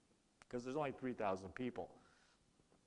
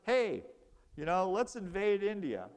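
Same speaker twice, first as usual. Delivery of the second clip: higher and louder, pitching the invasion; a pushy messenger bursting in with his idea; hammed-up excited pitch to Tojo; eager mock call; 5 semitones higher, 6 dB louder than usual. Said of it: "he goes".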